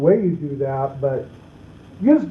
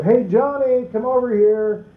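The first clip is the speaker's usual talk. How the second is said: put-on light sing-song call to a kid, a bit higher; a parent calls a kid who keeps playing; casual parent call; 5 semitones higher than usual. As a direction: toss out a half-hearted call to a child. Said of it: "drives me nuts sometimes when parents go".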